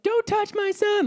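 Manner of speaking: very high, drawn-out mock yell; imitated mother's yell. Mom running in to defend her son, imitated yelling. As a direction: shriek it slowly like a protective mom, without full volume. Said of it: "and she's yelling".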